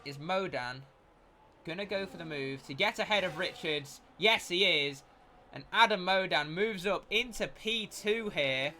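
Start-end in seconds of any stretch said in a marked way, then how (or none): 1.6-8.7 excited commentary. Real, not acted. Overtake on last lap.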